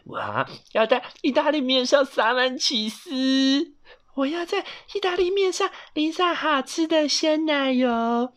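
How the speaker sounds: mild singsong longing; lightly voiced dreamy young animal. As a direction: savour each imagined topping. Animals voiced imagining their pasta.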